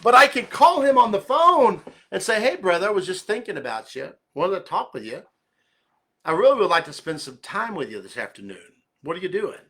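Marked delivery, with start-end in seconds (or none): 2.4-9.6 calm, steady. Shown as a demonstration. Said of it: "Do you see the difference?".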